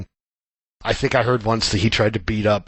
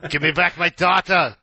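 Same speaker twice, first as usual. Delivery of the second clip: a hint of Arnie accent, higher, laughing through it; 6 semitones higher than usual. Imitating an angry hero in a light Arnie accent. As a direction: bark it Arnie-style, half-laughing. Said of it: "I did that in an Arnie accent".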